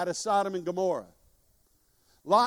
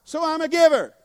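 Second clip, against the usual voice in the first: call-and-response; 7 semitones higher, 8 dB louder than usual. Shown as a demonstration.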